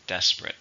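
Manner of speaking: "Desperate" with DES stressed; stress on first syllable. Shown as a demonstration. Teacher models the adjective for learners, "Desperate" stressed on the first syllable. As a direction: model "Desperate", strong DES, the rest reduced. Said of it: "stress is on the first syllable".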